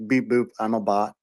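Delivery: flat mock robot voice; deadpan beep-boop bot act. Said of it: "pretending to be bots".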